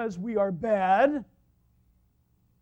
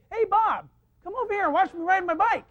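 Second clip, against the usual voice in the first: imitated child, high and loud; boy calling out; 8 semitones higher, 7 dB louder than usual. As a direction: holler like an eager little kid. Imitating small boy calling to him.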